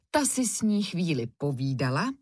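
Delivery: plain reading voice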